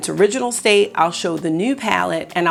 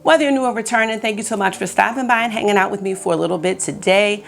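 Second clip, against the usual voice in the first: just-woke-up morning voice; early morning voice; 2 semitones higher than usual. Real, not acted. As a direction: talk in your early morning voice. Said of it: "I've got that early morning voice".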